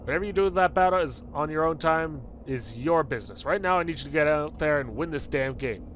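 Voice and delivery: lightly voiced coach giving orders; a touch of insistent team coach; baseball coach. Coach sending rookie out to play, lightly insistent coach voice.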